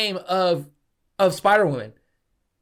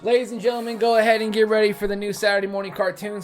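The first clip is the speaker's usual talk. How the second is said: lightly hammed-up TV announcer; mock show host. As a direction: hype it like a cartoon show host. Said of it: "show host announcement".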